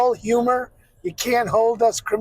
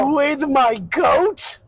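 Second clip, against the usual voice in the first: goat voice attempt; 5 semitones higher than usual. Shown as a demonstration. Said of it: "I can do better than that".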